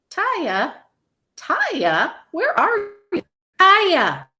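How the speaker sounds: high calls building to a shout; calling for a lost child. A narrator's reading. Father calls for lost daughter.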